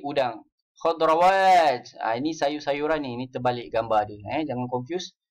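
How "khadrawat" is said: slow drilled word. Shown as a demonstration. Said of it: "teaching vocabulary slowly".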